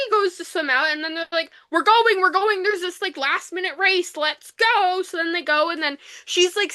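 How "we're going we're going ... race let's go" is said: urging them on. Retold or imitated. Acts out the group rushing off.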